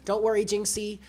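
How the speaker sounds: consoling the scared cat Jinx during the storm, soft and reassuring; soothing the cat. Retold or imitated. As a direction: comfort a frightened pet gently. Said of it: "I found myself being like".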